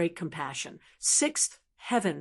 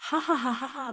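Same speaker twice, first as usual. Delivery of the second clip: a burst of spelled-out ha ha laughter; helpless laughter; 4 semitones higher, faster than usual. Acted. Townsman laughing at the crying butcher, helpless laughter. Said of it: "Countless laughter came from all directions".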